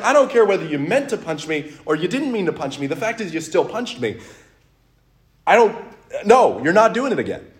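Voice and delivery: fed up, putting a foot down; retold firm refusal. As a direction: act out refusing to hear excuses.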